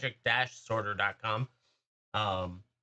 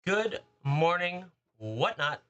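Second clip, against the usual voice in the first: drawn-out greeting; 4 semitones higher, much slower than usual. Real, not acted.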